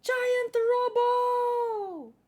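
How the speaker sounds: high, loud and very slow robot call; slow robot announce. Acted. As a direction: stretch it out like a cartoon intro.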